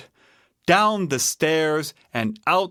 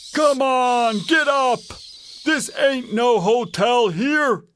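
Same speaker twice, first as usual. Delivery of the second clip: Papa Bear waking someone; 10 semitones higher than usual. A narrator's reading. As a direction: call out to rouse a sleeper. Papa Bear tries waking her again.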